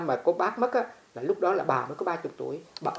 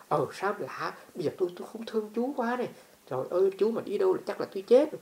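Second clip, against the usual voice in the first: put-on lovestruck old woman; 3 semitones higher, 4 dB quieter than usual. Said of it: "nói giống như hai người đàn ông đàn bà mà thương nhau".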